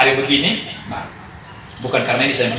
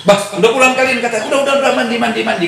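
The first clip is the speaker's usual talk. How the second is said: cheerful mother; 7 semitones higher, much faster than usual. Retold or imitated. Mother greets children cheerfully.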